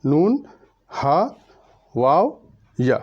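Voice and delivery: spaced-out letter names, each lifted at the end; Arabic-style alphabet. Shown as a demonstration. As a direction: recite ہا and یا with long Arabic "aa". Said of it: "میں عربی کے style میں پڑھتا ہوں". (عربی انداز میں حروف کی ٹھہر ٹھہر کر قرأت)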